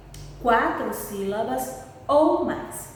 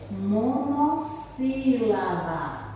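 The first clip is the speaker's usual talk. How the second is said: monossílaba stretched slowly, mo-nos-sí-la-ba; slow syllable-by-syllable; much slower than usual. Shown as a demonstration. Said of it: "teacher spells out the term".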